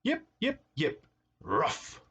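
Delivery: high little yips, then a ruff; playful imitation of small dogs barking; puppy yips. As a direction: yip like a puppy, drop to a ruff. Puppies yipping in the story.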